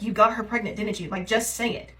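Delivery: insistent retold confrontation; pressing accusation. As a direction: demand he admit it. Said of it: "And I was like".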